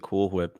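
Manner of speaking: "Cool Whip" with a breathy h before the w, as "Cool Hwhip"; odd pronunciation. Pretend. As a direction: put an audible puff of h into "Whip". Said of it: "Because of the way you pronounced it".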